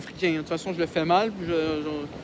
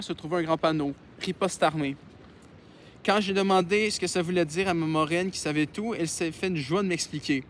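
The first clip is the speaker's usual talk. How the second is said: measured read-aloud voice; story narration. Acted. Reads a novel aloud.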